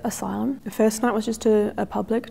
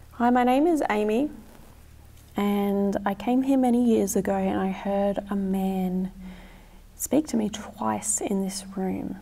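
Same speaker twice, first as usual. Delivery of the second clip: talking to a ghost. Real, not acted. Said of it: "what you said to Amy".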